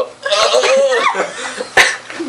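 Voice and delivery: high, wavering mock moan; hammed-up wail of weakening; draining groan. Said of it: "being drained as we go".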